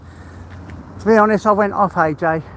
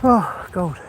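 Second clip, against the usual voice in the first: breathless and puffing; winded from walking; out of breath. Real, not acted. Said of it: "getting out of breath".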